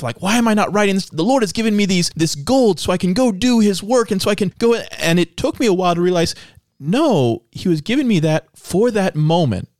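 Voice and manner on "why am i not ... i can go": higher-pitched exasperated self-questioning; mildly exasperated, replaying his old complaint to himself; frustrated with himself. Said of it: "I used to get frustrated with myself".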